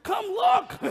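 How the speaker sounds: very high, loud, giddy call; excited shout. Retold or imitated. Pastor re-enacting his call to Kristen about pivot tables, excited shout. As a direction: shout for her to come, overexcited. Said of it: "I was so excited".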